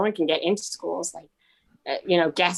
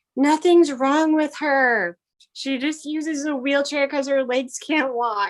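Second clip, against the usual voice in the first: put-on high-pitched kid voice, yelling; 8 semitones higher than usual. Retelling a five-year-old son answering across the pool: imitating a child screaming back. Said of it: "he screams back".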